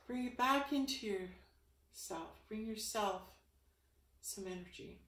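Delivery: hushed meditative closing; guided energy meditation. Acted. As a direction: guide them calmly as the session closes.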